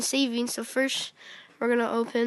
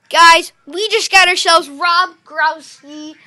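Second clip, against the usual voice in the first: excited; 3 semitones higher, 10 dB louder than usual. Real, not acted. Announces a star pull.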